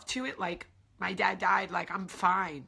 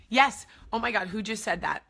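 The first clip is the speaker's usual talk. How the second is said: excited; 6 dB louder than usual. Real, not acted. Recognizing a phrase.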